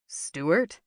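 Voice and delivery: surprised question with rising end; mildly startled recognition. A narrator's reading. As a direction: lift the name into a question. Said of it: "He didn't hide his surprise".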